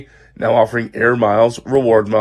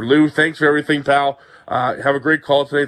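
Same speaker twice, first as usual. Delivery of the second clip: muffled voice; 2 semitones higher than usual. Real, not acted. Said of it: "Thanks for putting up with my muffled voice".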